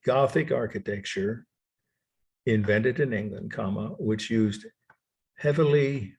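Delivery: word-by-word dictation with pauses. Real, not acted. Lecturer repeating a definition for students' notes, dictation. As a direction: leave gaps so each word can be written.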